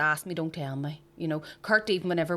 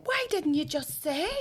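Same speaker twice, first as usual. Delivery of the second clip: higher-pitched exasperated retort; retold exasperation; 9 semitones higher than usual. Wife asking husband why he never said, mildly exasperated.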